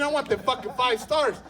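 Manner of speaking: ordinary talk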